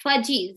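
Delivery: fudgy with a J in the middle; wrong J sound. Shown as a demonstration. Teacher shows the wrong sound to avoid. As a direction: say fudgy, the mistaken way. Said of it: "it is not fudgy".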